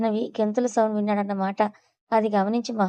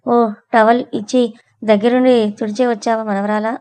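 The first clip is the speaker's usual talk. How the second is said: louder, knowing mock question; teasing; 6 dB louder than usual. Grandma teasing Sweety about the towel, sarcastic. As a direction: needle her playfully.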